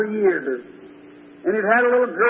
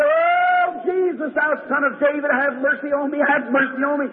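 crying out; 2 semitones higher than usual. Acted. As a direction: call out for mercy to someone passing by. Blind Bartimaeus cries out to Jesus.

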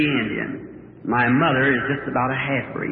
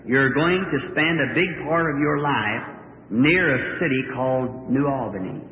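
solemn voice; 2 semitones lower, slower than usual. Retold or imitated. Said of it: "And a voice said".

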